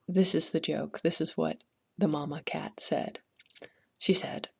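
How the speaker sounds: lively storyteller voice for a folk tale; story narration. A narrator's reading. Host telling listeners a Welsh folk tale, storyteller voice. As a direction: tell it like reading to children.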